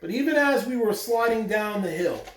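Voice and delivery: reading a picture book aloud to the class; even, steady storybook reading voice; story narration. Acted. Teacher reading the story to her students, storytelling voice.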